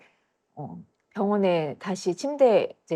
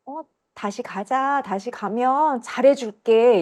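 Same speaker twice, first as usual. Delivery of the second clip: slow, higher wheedling voice; coaxing girls; 4 semitones higher, slower than usual. Retold or imitated. Girls promising to treat her well, slow coaxing. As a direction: imitate girls luring her back, drawn out. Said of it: "여자애들이 저한테".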